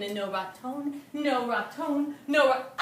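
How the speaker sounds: slowing searching calls building to a cry; worried calling to a cry; rising panic. Acted. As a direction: call for him, then gasp in alarm. Martina finds husband missing.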